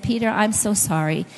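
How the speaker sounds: retold mildly sheepish apology. Wife asking husband to forgive her disrespect, mildly sheepish. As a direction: apologise a little sheepishly, keeping it understated. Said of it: "I kinda sheepishly said".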